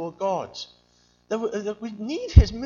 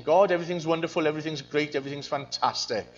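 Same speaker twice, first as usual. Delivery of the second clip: mock brave face; 3 semitones lower, faster than usual. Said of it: "putting on a brave face".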